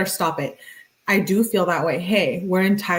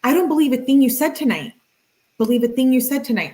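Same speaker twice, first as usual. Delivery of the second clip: quick, higher, pressing every word; emphasized text; 5 semitones higher, faster than usual. Retold or imitated. Reading her furious text to the viewers, emphatic. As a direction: hammer her distrust home. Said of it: "She emphasizes it".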